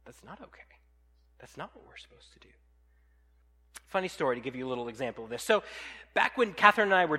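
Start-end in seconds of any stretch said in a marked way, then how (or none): 0.0-0.6 whispered, much softer, stress on not; God's hushed no. Acted. God quietly answering the excuse, whispered. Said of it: "God says". 1.4-2.5 whispered, much softer, a gentle no; God's hushed reply. Acted. God whispering a correction to the excuse-maker, hushed. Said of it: "God says".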